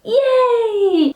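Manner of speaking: excited wedding guest. Pretend. Pretend wedding guest catching the bouquet, squealing with joy. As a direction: play a thrilled guest who caught the bouquet. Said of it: "You could say".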